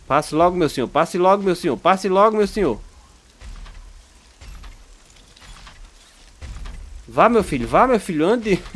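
high, loud mock-formal coaxing; impatient old-fashioned urging. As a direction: hurry him like a fussy elder. Urging slow in-game vehicle.

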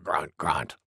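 low, soft boar grunts; grunting wild boar. Acted. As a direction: grunt low after the big sneeze. Wild boar grunts after sneezing.

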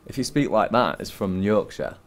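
slow Yorkshire demonstration; Yorkshire accent. Shown as a demonstration. Guest explaining where his dad is from, Yorkshire accent. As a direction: speak it with a Northern English Yorkshire accent. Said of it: "I'll do the Yorkshire accent".

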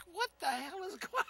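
a hammed-up shout of disbelief; mock outraged yell. Retold outburst at the diner.

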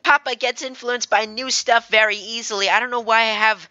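put-on high little girl voice; small child piping up about Papa. Daughter explaining her papa to a stranger, high girlish voice. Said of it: "little girl French accent".

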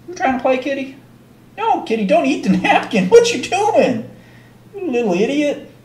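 high, playful mock scolding. Real, not acted. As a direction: fondly tease a naughty kitty.

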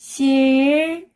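싫다 high, split as a stretched 실, then 다; syllable by syllable. Shown as a demonstration. Teacher breaking a word down for learners, syllable by syllable. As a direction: hold the L in 싫다, then a separate 다. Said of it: "When you read it together".

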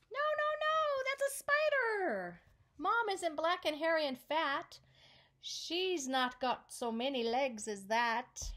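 little monkey squeals no, no, no at the spider; monkey protesting. Acted. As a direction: squeal out a frantic denial.

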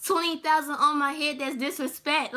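mock upset, punched out loud at first; loud opening, easing off as you quote; quoting a rapper's lyrics. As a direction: recite the lyric with emphatic mock outrage. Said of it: "what the rapper say?".

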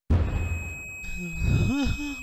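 high laughing put-on voice. Voicing a game character at the end, laughing. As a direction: cackle through the line.

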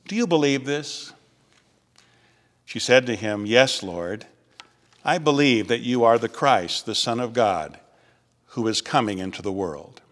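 measured, solemn gospel reading; scripture reading. Acted. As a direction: read the passage to the congregation with care. Reads the gospel aloud.

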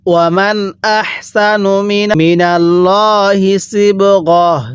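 slow, drawn-out tajweed chant; Quran recitation. Shown as a demonstration. Teacher recites the verse for students, slow tajweed chant. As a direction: intone each syllable slowly like a reciter. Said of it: "একবার revision দিব".

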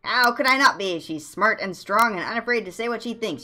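high, loud, smitten outburst; ardent gushing. Acted. Bard gushes about Katie to a friend, ardent. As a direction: burst out in praise of your beloved. Bard defends being in love.

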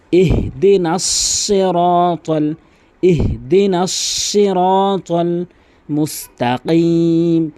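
slow melodic tilawat; Quran recitation. Acted. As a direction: chant it with long held vowels.

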